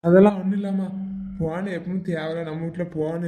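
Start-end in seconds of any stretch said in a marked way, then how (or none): 0.0-0.9 loud brush-off of the worry; loud reassurance. Acted. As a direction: talk over her to calm her. Son loudly reassuring angry mother.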